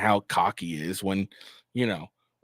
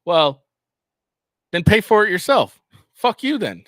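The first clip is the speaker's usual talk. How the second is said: loud, high, scornful shout; angry retort; 8 semitones higher, 9 dB louder than usual. Acted. Streamer shouting at Zelensky, loud and angry. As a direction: yell it back with contempt.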